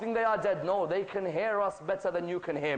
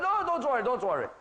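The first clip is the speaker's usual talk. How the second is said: quick, high-pitched brush-off; breezy reassurance; 3 semitones higher, faster than usual. Acted. Bahlul brushing off the caliph's warning, breezy reassurance. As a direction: wave the worry away, starting high.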